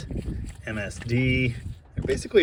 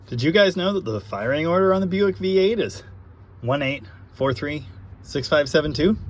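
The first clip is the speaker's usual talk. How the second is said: usual speaking voice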